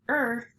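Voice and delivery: "er" as the R sound alone; a held, separate "er" sound; isolated letter sound. Shown as a demonstration. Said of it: "and R says".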